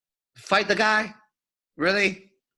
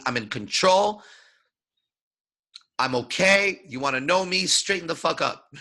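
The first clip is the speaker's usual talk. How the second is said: confident voice. Shown as a demonstration. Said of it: "My voice is saying".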